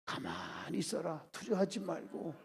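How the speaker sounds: hushed, low retold command; Moses quoted. Moses to the people at the Red Sea, hushed calm. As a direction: drop right down to still the people. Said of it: "그때 주의 종이 뭐라고 했습니까?".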